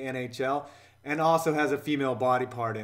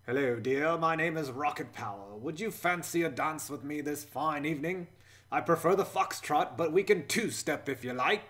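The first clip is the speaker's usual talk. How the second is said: bad British accent. Gentleman asking a lady to dance, in a bad British accent. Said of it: "Rocket Power has a bad British accent".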